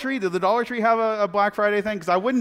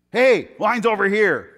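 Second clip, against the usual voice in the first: louder call of the shoppers in line; mock jeer; 6 dB louder than usual. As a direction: heckle him as he walks past. Shoppers jeering at passerby.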